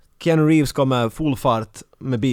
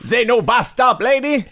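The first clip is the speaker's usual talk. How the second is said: lightly voiced driver in broken English, higher; imitating the bus driver; 8 semitones higher, 3 dB louder, slower than usual. Host imitating mister James refusing a passenger, light put-on voice. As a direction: brush her off like a grumpy driver. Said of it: "Jag imiterar mister James".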